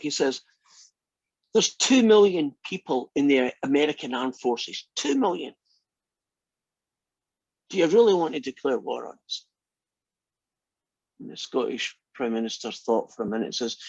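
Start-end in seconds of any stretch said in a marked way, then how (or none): 1.5-9.5 retold appeal with a touch of desperation; desperate. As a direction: imitate someone trying hard to talk them out of it. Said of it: "he's kind of desperate now".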